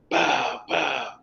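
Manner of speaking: two soft mock bangs on metal; spaced "pow, pow" sound effect; imitated banging. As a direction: imitate knocks on a metal door, softly. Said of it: "you know, like that".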